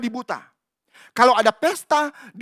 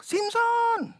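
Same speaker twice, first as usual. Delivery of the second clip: mock alarm call; 5 dB louder, slower than usual. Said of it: "Dilihat teriak".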